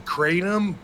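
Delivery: lightly hammed-up quote, stretching the key words; mock-grave pronouncement. Podcaster quoting Dutch Mantell on Kratom, mock-grave pronouncement.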